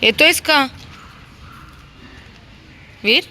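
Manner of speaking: high, loud calling question. Real, not acted. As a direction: call impatiently to someone lagging. Calling Veer to come.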